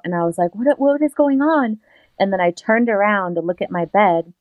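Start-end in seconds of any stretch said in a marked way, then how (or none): 0.5-1.8 reenacted high-pitched panic; freaked out. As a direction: stammer it high, acting freaked out. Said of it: "I freaked out".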